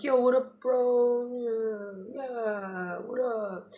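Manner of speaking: mock surfer-dude hello; laid-back bro. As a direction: greet him like a chill frat bro. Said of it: "The sun's like".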